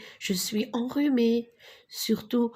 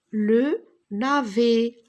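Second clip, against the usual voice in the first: le navet spoken slowly and louder; slow syllable by syllable; 4 dB louder, slower than usual. Shown as a demonstration. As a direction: spell out le navet for the class. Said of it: "model sentence". (le navet articulé lentement)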